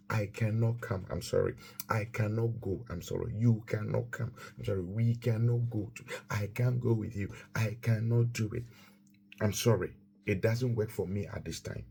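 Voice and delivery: even, unemotional refusal; calm clear no. Shown as a demonstration. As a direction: say no plainly without drama. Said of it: "Say it clearly, calmly, no emotions".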